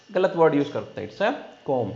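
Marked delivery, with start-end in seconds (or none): 1.7-1.9 comb ending on the M; silent B. Shown as a demonstration. Teacher correcting common misuse, comb with silent B. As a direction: say comb with no B sound. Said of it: "not a bee".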